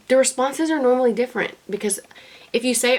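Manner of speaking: ordinary talk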